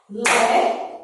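"Leão" in two separated beats, first drawn out; syllable by syllable. Shown as a demonstration. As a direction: split "Leão" as Le, pause, ão. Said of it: "vai bater as palminhas e você vai contar".

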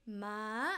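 "Ma" mid, then rapidly high. Shown as a demonstration. Teacher recapping high tone, "Ma" flicking upward. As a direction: hold "Ma" level and kick it up. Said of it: "mid and rapidly high".

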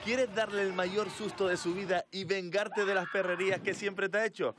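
upbeat radio promo voice; ad read. Acted. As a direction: sell it like a station ad.

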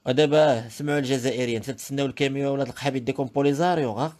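loud furious tirade; angry rant. Real, not acted. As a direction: shout insults at the stranger. Insult rant at Algerians.

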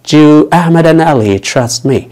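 very slow and spaced; slow teaching read. Shown as a demonstration. Teacher repeats the question slowly for learners. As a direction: lay it out slowly again. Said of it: "يبقى السؤال كما هو".

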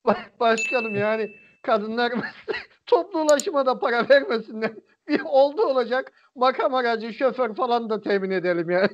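sarcastic, laughing through it; bitter laugh while speaking; nervous laugh. Real, not acted. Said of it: "Gözlerim yaşardı gülmekten".

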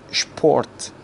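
شپورت opening on "shp". Shown as a demonstration. Teacher modelling German sport, شپورت starting with sh. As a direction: say شپورت with sh before the p.

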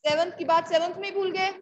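rattled off fast as a mock scolding; teasing rebuke. Real, not acted. Teacher teasing silent students, fast mock scolding. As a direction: needle the class for forgetting, quickly.

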